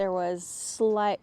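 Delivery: slow, drawn out. Shown as a demonstration. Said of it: "there was a slight cross breeze".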